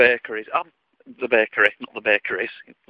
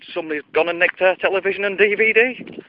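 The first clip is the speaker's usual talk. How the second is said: Father Bear; 6 semitones higher than usual. Acted. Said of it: "Father Bear turns round and says".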